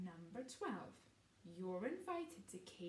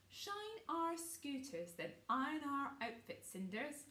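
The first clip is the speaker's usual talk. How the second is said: bossy order; 5 semitones higher than usual. Acted. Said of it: "ordered Gareth".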